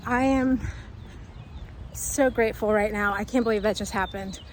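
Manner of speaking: slightly breathless, excited talk; out of breath. Real, not acted. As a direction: speak between quick breaths. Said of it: "Sorry, I'm a little out of breath".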